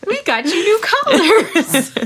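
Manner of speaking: high, slow giggly coo. Real, not acted. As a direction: tease the dogs through laughter. Cooing to the dogs.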